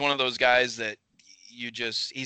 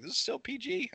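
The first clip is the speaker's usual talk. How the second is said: incredulous mock surprise; 13 semitones higher, 6 dB quieter than usual. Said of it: "I was like".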